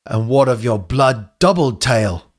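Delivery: lightly voiced, measured elder; old echidna mentor. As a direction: ask it as the cryptic elder, lightly accented. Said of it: "that's, that's the voice".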